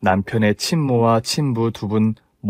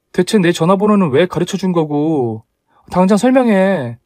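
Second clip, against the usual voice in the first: higher-pitched, indignant questioning; angry demand; 6 semitones higher than usual. Acted. Bride asks why he gave her number, angry demand. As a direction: demand answers sharply.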